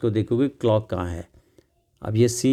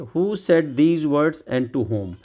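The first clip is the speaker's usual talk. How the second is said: reads each word out very slowly; slow, deliberate read-aloud of the question; 3 semitones higher, much slower than usual. Shown as a demonstration. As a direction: dictate it word by word.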